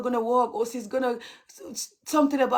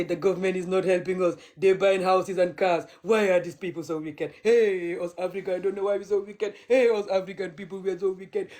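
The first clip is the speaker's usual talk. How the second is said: mocking the complainers. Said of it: "they turn around and say".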